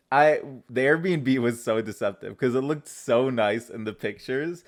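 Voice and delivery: hoarse from fasting; raspy, worn-out voice. Real, not acted. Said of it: "excuse my raspy ass voice".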